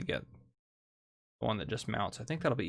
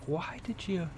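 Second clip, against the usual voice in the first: incredulous; 5 semitones higher, 6 dB quieter than usual. Retold or imitated. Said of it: "that I'm like".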